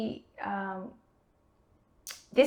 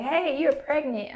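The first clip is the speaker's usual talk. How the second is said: higher, slow and delighted; excited nurse; 6 semitones higher, slower than usual. Retold or imitated. Nurse telling her patient the test result, mock excited. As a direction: announce it gleefully, drawn out. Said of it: "she's excited".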